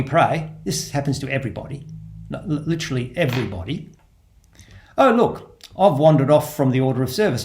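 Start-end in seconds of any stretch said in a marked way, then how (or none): 5.0-7.4 mock sudden realisation. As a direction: lightly act out catching yourself drifting. Acts out noticing a wandering mind.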